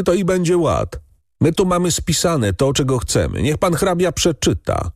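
high, insolent demands; defiant. A narrator's reading. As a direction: talk back boldly, daring him. Defiant servants confront the count.

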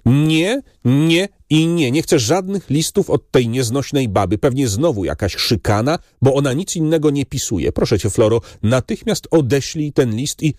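high-pitched, petulant narrated outburst; indignant refusal. A narrator's reading. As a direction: refuse crossly, pitch lifted well up without shouting. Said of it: "Rumieniec gniewu wystąpił na twarz". (oburzona odmowa wysokim tonem)

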